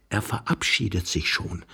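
hushed, low confiding murmur; soft, conspiratorial undertone; whispering young man. A narrator's reading. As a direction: secretly reassure a fellow hider. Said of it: "flüsterte der junge Mann".

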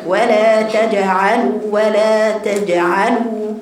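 تجعلوا slow with the ج bouncing; clear qalqala. Shown as a demonstration. Teacher drilling the qalqala, slowly. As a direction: give the ج in تجعلوا a crisp echo. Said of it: "برضو القلقلة".

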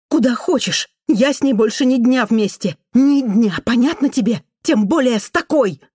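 high, loud furious refusal; angry yell. Acted. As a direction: snap back at the husband, shrill and final. Wife yells at husband.

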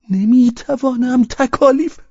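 very high, loud put-on voice; mocking refusal. A narrator's reading. Pavel refusing to leave the carriage, mocking. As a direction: draw it out slowly, pitched right up.

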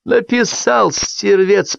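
high, barked repeated words; barking voice. A narrator's reading. Returning guest barks at the table in a high voice. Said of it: "произнёс он лающим голосом".

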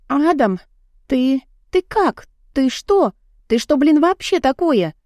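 startled and outraged, rising in pitch; indignant. Acted. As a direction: heroine scolding Adam for grabbing her, indignant. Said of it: "возмутилась я".

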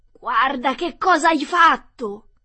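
high, loud, slow shriek; witch's shriek. Acted. Witch shrieking at Dorothy as she melts. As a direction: scream it in horror. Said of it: "urlò".

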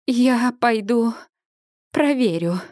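slow, faltering words; trembling voice. A narrator's reading. Heroine excusing herself from the tent, voice trembling. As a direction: barely hold it together. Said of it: "дрожащим голосом говорю я".

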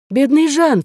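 high, loud cry of pity. A narrator's reading. Gilberte sees the breathless old peasant, pitying cry. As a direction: cry out for him in alarm. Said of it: "вскричала Жильберта".

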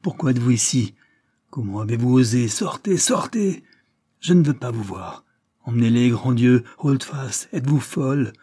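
colère tendue, voix haussée; les rabrouer avec une fureur montante; furieuse. Acted. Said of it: "mais furieuse". (la marquise furieuse rabroue filles et servante)

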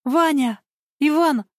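calls his name from a distance, pitch high; hailing someone across the street; calling out. A narrator's reading. Lisa hails Ivan as he turns to leave, calling out. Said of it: "и тут его окликнули".

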